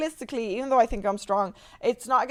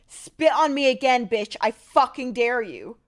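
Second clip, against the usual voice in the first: yelling threat; 4 dB louder than usual. Retold or imitated. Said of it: "he's yelling".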